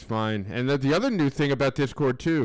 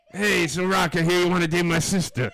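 Paulie impression; 4 semitones higher, 3 dB louder than usual. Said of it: "You're Paulie".

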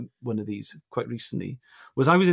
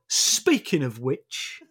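put-on child's Cockney voice; much slower than usual. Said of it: "she'll say things like".

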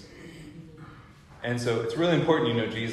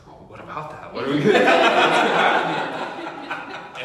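nervous; 7 semitones higher, 10 dB louder than usual. Retold or imitated. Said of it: "she's calm more than I was".

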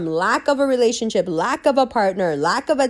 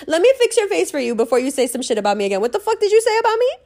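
mock threat; 4 semitones higher, faster than usual. Acted threat to an insulter.

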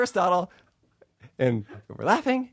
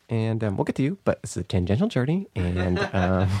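lightly mimicked podcast host; Alexi Wasser impression; 4 semitones lower than usual. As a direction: do a rambling host, lightly put on. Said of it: "Do an impression of me".

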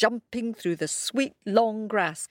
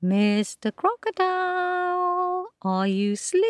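higher and louder call; a bit louder; 12 semitones higher than usual. A narrator's reading. Kojo calling the crocodile a bit louder. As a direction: say it up a notch. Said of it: "a bit louder".

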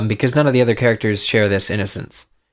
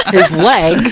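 laughing, mocking; 9 semitones higher, 5 dB louder than usual. Real, not acted. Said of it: "we were starting recording".

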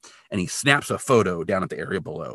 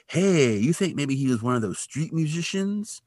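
put-on funny-talking old guy; 7 semitones higher than usual. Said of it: "the guy talks funny".

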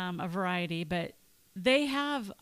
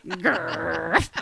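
playful growling dog woof; 5 semitones lower, 4 dB louder than usual. Pretend. Imitates a dog after calling herself mutt.

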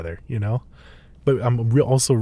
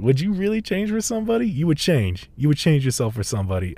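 higher-pitched, quicker retold questioning; mock a friend's disbelief, pitched up; incredulous friend; 5 semitones higher than usual. Friend questions whether he would change, incredulous.

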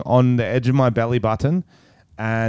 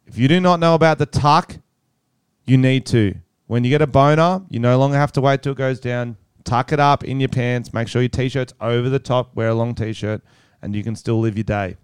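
mock-official announcement, starting raised and settling down; public service announcement. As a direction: address young listeners like an official notice. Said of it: "public service announcement".

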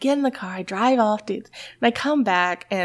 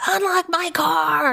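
high, drawn-out mock yell; retold yelling; 9 semitones higher, slower than usual. Locked-out wife yells at husband, high acted shout. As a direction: re-enact yelling across the house in exasperation. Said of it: "yelling at my husband".

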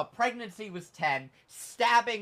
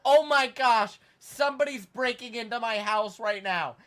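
high, hammed-up alarm on a phone call; fake panic; 4 semitones higher than usual. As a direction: act terrified of an intruder, badly faked. Acts faked break-in call.

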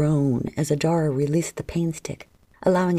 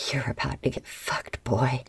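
growled; 4 semitones lower, 3 dB quieter than usual. A narrator's reading. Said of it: "she growled".

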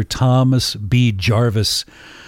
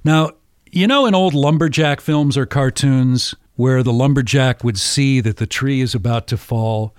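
ordinary delivery

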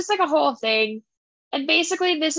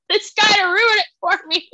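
laughing; 7 semitones higher, 4 dB louder, faster than usual. Real, not acted. Laughing through the words.

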